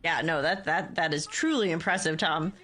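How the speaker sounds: talking through a yawn; words stretched by a yawn. Real, not acted. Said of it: "I'm so sorry I'm yawning so much".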